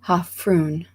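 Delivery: Hafrún said as HAF-roon; Icelandic name pronunciation. Shown as a demonstration. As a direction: say "Hafrún" with a long oo in the second syllable. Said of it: "I don't know if this will be right".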